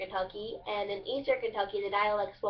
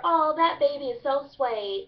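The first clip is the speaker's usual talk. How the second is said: higher, louder Kentucky gush, "sweet" as "swate"; southern drawl; 5 semitones higher, 5 dB louder than usual. Shown as a demonstration. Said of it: "the southern drawl".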